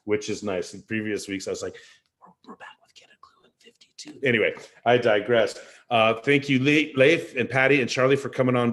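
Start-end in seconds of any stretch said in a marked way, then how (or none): 2.2-4.3 hushed, breath-only whisper; imitating a very soft whispered show intro; keeping voice down. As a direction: whisper it so nobody in the house hears. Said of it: "have to keep my voice down".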